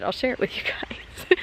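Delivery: soft whisper. Real, not acted. Aside to the viewers.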